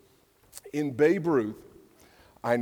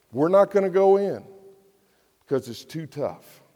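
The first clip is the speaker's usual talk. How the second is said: higher, louder refusal; defiant outburst; 3 semitones higher, 7 dB louder than usual. Acted. Israelites refusing to enter the land, loud and higher. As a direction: throw out the refusal like a stubborn crowd.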